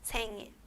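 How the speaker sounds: "sen, il" as two syllables, N staying in the first; divided syllables. Shown as a demonstration. Teacher breaks word into two syllables, "sen, il" divided. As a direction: keep "il" free of the N of "sen". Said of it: "lo podemos desglosar en sílabas, dos sílabas".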